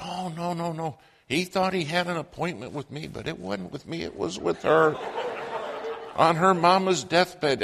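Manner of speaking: high, quick excited explaining; eager clerk. Retold or imitated. Clerk explaining to the newcomer, high and eager. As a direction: rush it out, bursting to share.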